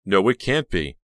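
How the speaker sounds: aghast, voice jumping up; gasping disbelief. A narrator's reading. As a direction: recoil in acted shock. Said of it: "spun around and gasped".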